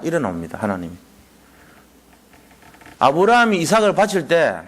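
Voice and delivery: ordinary talk, nothing marked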